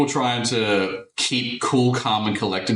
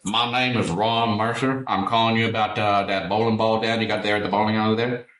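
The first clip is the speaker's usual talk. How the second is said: mock Southern prank caller, slightly slowed; a touch of fake Southern accent; put-on Southern accent. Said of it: "most put-on Southern accent I've ever heard".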